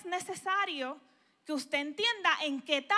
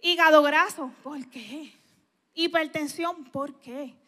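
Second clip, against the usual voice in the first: mock bewildered complaint; slower than usual. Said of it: "Y usted dirá".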